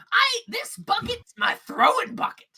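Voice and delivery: high, loud breezy voice; chatty shopkeeper. Acted. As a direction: rattle it off cheerfully. Gleb proud of bucket.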